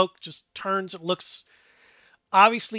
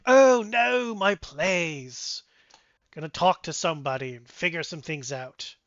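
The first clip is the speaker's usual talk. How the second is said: lightly voiced chatty dwarf; a hint of a flirty dwarf; 3 semitones higher than usual. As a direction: loose dwarf voice, rising when he flirts. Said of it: "the dwarf goes".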